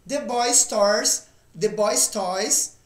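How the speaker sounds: slow drill of the phrase; slow repeat. Shown as a demonstration. Teacher drills the phrase slowly for students. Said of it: "Próximo exemplo".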